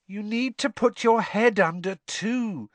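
put-on high, bossy ghost girl; bossy gleeful ghost. A narrator's reading. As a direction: boss him around with relish. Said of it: "enjoying bossing him around".

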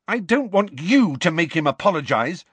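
high-pitched angry protest; shout. A narrator's reading. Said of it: "Lily shouted".

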